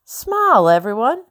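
high, tight command through teeth; through clenched teeth. A narrator's reading. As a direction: order a smile through a grimace. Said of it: "commanded through clenched teeth".

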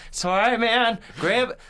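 high, loud pretend rescuer; mock frantic reassurance. Rescuer to impaled friend while pulling, mock frantic reassurance. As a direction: call out high and loud, play-acting. Imagined rescuer soothing victim.

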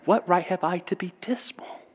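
high, wondering self-question; saying to himself. Acted. Orphan boy thinking of others worse off, to himself. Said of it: "saying to himself".

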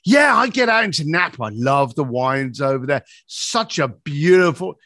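happy. Retold or imitated. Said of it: "now he's happy".

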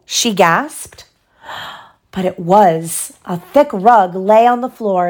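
put-on expressive read-aloud for a child; measured bedtime-story reading; story narration. A narrator's reading. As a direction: read a storybook with lively, clear phrasing.

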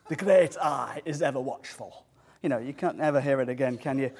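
lightly put-on Yorkshire voice; playful imitation of a Yorkshire accent; mock Yorkshire accent. Preacher jokingly proves Moses was from Yorkshire, mock Yorkshire accent. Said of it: "mocking the accent".

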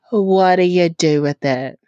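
ordinary talk, nothing marked

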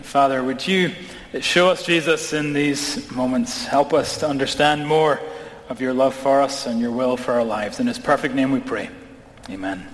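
hushed, reverent prayer voice. Acted. Pastor praying before the sermon, reverent and low. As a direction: pray over the congregation.

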